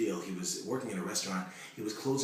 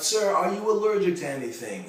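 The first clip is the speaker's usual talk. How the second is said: nurse yelling; 10 semitones higher, 10 dB louder than usual. Retold or imitated. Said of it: "One nurse yells out".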